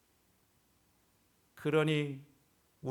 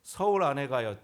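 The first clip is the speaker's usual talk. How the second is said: ordinary delivery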